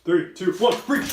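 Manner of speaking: loud shouted countdown; breaching countdown. Acted. Soldiers raid.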